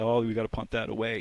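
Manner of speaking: ordinary talk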